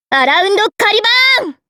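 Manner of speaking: アラウンドカリバーン climbing high to a long, ringing バーン; climactic attack cry. Acted. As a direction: build アラウンドカリバーン up to a high-pitched peak on バー. Calling out special attack name, climactic. (「アラウンドカリバーン」を高く上げ、「バー」を長く叫ぶ)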